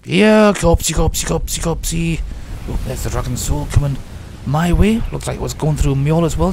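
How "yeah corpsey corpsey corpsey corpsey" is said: singsong pet-calling, starting loud; playful calling. Pretend. Player hunting a corpse, playful repeated calling. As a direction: coax it out like a lost pet.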